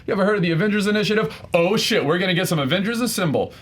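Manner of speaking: hyped-up movie-fan reaction; excited fan quote. Acted. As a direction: rattle it off high and eager. Quotes film line, excited fan response.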